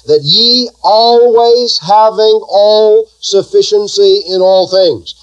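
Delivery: drawn out slowly, leaning on always; slow emphasis. Shown as a demonstration. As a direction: spell it out slowly for the church. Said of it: "Now watch that".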